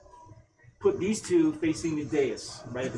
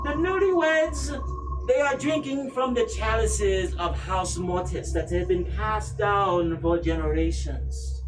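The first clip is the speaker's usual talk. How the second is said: raised, drawn-out noble lady, measured and formal; Lady Amelia; 2 semitones higher, slower than usual. Acted. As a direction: speak as a haughty, grieving matriarch.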